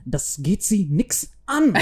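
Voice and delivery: slow, mock-British officer speaking German; British-accented German. British agent rebuking a drunk soldier, mock British accent. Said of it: "als Brite, der dann so".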